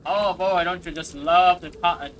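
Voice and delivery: loud, badly faked Southern accent; half-successful mock Southern enthusiasm; failed Southern accent. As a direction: gush in an unconvincing Southern voice. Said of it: "I can't do that accent".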